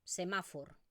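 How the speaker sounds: "semáforo" with every vowel full and clear; Western Catalan. Shown as a demonstration. Teacher modelling the Western pronunciation of "semáforo". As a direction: say "semáforo" just as it is written. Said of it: "tal cual".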